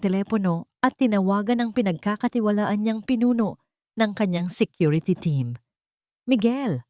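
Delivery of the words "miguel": a mildly stern order, pitched up; firm, commanding. A narrator's reading. Boss calling his security chief, firm and commanding. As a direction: call the name with firm authority. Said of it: "ang boses ay matigas at puno ng utos".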